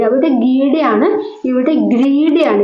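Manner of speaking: slow, leaning on അവിടെ ഗീഡ and ഇവിടെ ഗ്രീഡ to set them apart; contrastive teaching stress. Shown as a demonstration. Teacher contrasting two similar words for students, slow and deliberate. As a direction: spell out അവിടെ versus ഇവിടെ carefully for the class. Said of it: "അഞ്ച് ഗെയ്ഡ്".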